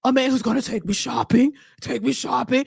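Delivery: low smoker's rasp, like a pack a day; husky voice of a woman who's smoked for years; Vivica impression. Mocking the actress's voice for her viewers, low smoky rasp. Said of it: "that's how she sound. Like she been smoking cigarettes for years".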